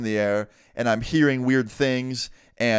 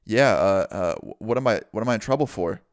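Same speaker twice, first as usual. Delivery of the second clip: nervous stuttering; 3 semitones lower than usual. Retold or imitated. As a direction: imitate a mildly fearful stammer. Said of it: "just stuttering out of fear".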